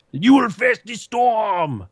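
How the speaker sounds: slow, ominous boss voice; Hekima the Wise. Retold or imitated. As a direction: intone it like a doom prophet. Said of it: "where he's like".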